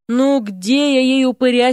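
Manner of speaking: frustrated cry; exasperated outburst. A narrator's reading. Dean cries out in frustration, exasperated. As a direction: throw up hands in despair. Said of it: "в сердцах воскликнул".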